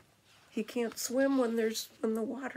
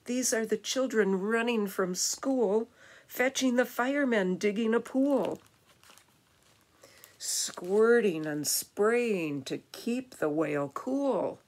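lively, building rhymed reading; animated storytime narration; picture-book narration; 4 dB louder than usual. A narrator's reading. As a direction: read to children with bustling energy. Reads picture book aloud.

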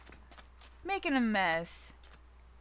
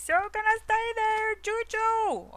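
much higher, louder gushing at the pet; 12 semitones higher, 5 dB louder than usual. Real, not acted. Talking to pet.

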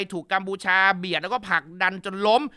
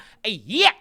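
mock curse; 6 dB louder, slower than usual. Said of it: "คุณแม่ด่าว่า".

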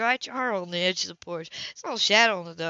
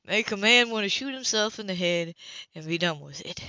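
level, considering. Acted. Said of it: "in a level, considering voice".

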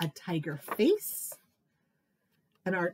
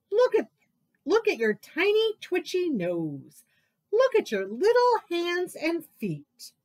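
lightly voiced mocking animal; taunting animal voice; 3 semitones higher, 4 dB louder than usual. Animal teasing the mouse, lightly voiced taunt.

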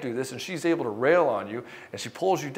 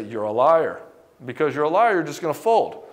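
louder, accusing wife's jab; wife calling her husband a liar, loud; mock accusing wife; 6 dB louder than usual. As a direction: jab at him like a testing wife. Wife accusing husband, acted quote.

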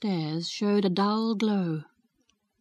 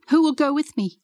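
higher, louder whiny question; petulant question; 6 semitones higher, 4 dB louder than usual. Acted. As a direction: ask it like a spoiled child. Mary asks, high and loud.

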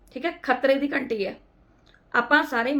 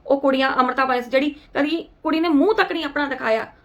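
angry rant; 4 dB louder than usual. Real, not acted. Angry rant at abusive commenters.

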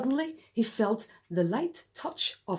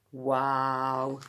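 amazed wow; 9 semitones lower than usual. Real, not acted. Reacting to octopus picture.

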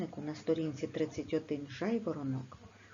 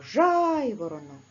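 loud call of Жайворонок with the stress hit on the first syllable ЖАЙ; teacher calls the word aloud to find the stress; 4 semitones higher, 7 dB louder than usual. Shown as a demonstration. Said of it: "гукаємо".

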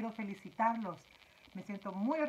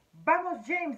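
higher, louder pleading; pleading ladybug voice; 7 semitones higher, 9 dB louder than usual. A narrator's reading. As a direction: beg him to go on. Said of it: "dijo la mariquita suplicante".

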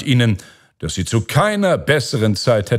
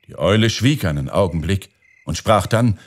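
ordinary delivery

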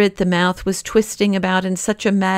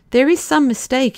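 astonished; 7 semitones higher than usual. A narrator's reading. Secretary anxious authority.

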